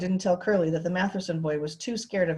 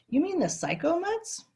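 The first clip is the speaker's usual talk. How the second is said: higher, gruff character voice; gruff foreman; 12 semitones higher than usual. A narrator's reading. Curly answering the officer about the dogs, scornful. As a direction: toss it off with scorn.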